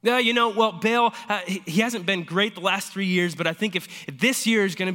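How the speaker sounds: high, loud, sheepish shrug of an excuse; a touch of sheepish defensiveness; defensive excuse. Retold or imitated. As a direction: brush it off like a believer making excuses. Imagined Israelites defending Baal worship.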